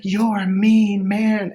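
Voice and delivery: put-on slow, high little-girl scold; childlike scolding. Dorothy telling the wizard off, slow and high. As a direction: talk down to him like a pouting child. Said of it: "And she's like".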